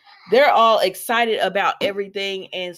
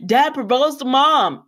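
higher, slow gleeful announcement; retold glee; 5 semitones higher than usual. Daughter announcing her parents' engagement, retold glee. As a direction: draw out the happy news, pitched up. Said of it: "Steffi was all too happy".

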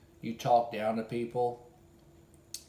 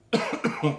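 loud dry cough; 4 semitones higher, 6 dB louder than usual. Real, not acted. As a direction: cough hard. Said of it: "catch my breath".

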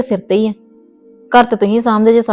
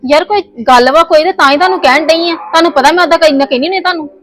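insistent; 6 semitones higher than usual. Acted. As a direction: make him stop and listen. Wife insists husband hear her.

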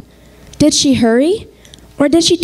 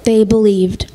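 hushed whisper; 2 semitones lower than usual. Acted. Hushed echo of the reading.

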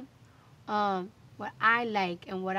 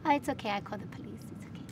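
imitating polite neighbors, trailing off softer; mock-polite neighbor; 5 dB quieter than usual. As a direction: feign niceness, then drop to a quiet, sneaky aside. Mimicking neighbors' polite complaint.

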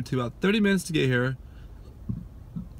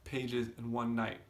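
quiet voice; 7 dB quieter than usual. Real, not acted. Quiet evening talk.

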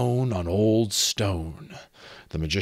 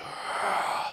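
long unvoiced exhale; slow breath sound; audible breath; 5 dB quieter than usual. A narrator's reading. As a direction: let out a heavy, hushed breath. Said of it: "The sound of breath came nearer".

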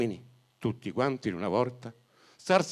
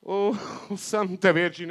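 exclaimed; 6 semitones higher than usual. Acted. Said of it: "esclamò il buon prete".

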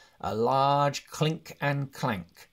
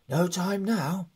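slow, urgent and louder; urgent hobbit; 7 semitones higher, 5 dB louder than usual. A narrator's reading. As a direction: press them, no time to waste. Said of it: "said the hobbit".

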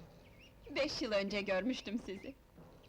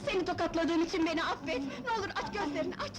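high, urgent begging; frantic pleading; 4 semitones higher, faster than usual. Acted. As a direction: beg her desperately to wake up. Begging fainted woman to wake. (telaşla yalvarma)

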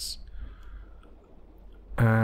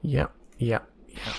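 whispered; 4 dB quieter than usual. Real, not acted. Player murmurs at repeated line.

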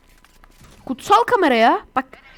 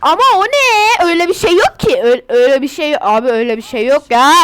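louder, exasperated protest; loud disbelieving complaint at the game; real frustration; 6 dB louder than usual. Real, not acted. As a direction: insist nothing like that exists, fed up. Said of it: "Sinirlendim ya".

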